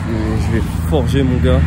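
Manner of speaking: loud self-pep talk; fired up. Real, not acted. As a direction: psych yourself up mid-run. Pumping himself up.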